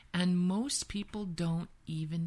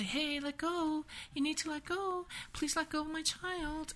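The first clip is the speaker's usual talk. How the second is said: mock high throat voice; 10 semitones higher than usual. Shown as a demonstration. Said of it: "What's the voice you use if someone was hurting your child".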